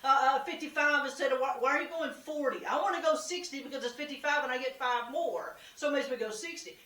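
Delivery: hammed-up annoyed driver; mock road rage. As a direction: gripe like a driver stuck in traffic.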